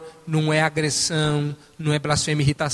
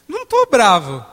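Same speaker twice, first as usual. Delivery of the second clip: louder, tense denial; denying anger; 4 semitones higher, 6 dB louder than usual. Retold or imitated. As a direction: insist you are not angry, voice rising. Acted quarrel with wife.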